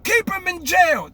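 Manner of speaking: high, slow retold command; imitating the president's order. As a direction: mimic a stern leader's verdict, drawn out. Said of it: "somebody doing a skit acting like that's him".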